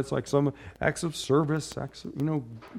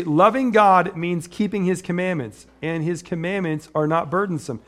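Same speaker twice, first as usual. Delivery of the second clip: scripture reading; 3 semitones higher than usual. Acted. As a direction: read the verse out with weight.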